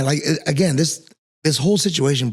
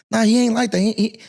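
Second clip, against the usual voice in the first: higher-pitched dismissive defence; defensive, retold; 7 semitones higher than usual. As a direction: brush off the accusation on his behalf. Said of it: "I would kinda defend some of his points".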